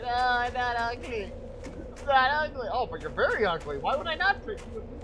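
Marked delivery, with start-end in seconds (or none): 0.0-2.7 high, slow, wounded little wolf voice; mock-hurt high pet voice; voicing the wolf. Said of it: "The poor wolf is like".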